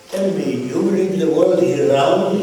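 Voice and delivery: imitated Arab-accented questioning. Arab group leader doubting the round earth, Arab accent. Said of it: "said in an Arab accent".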